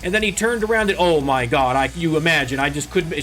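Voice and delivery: put-on grandmother's Maritimes accent, high and animated. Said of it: "my grandmother's got a thick accent".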